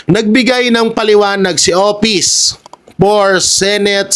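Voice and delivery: reading with a head cold; nose blocked up from a cold; stuffy nose. Real, not acted. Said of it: "may sipon tayo".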